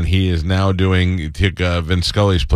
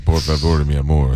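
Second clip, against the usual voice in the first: put-on Spanish accent; 6 semitones lower than usual. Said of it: "if you try to do Spanish".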